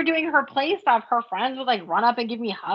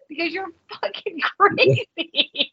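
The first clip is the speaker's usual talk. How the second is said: mock terrified; 6 semitones higher than usual. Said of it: "I'm afraid to move".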